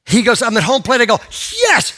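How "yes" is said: loud retold whoop of joy; triumphant cheer. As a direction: burst out as the boy who got a hit. Boy celebrates his hit.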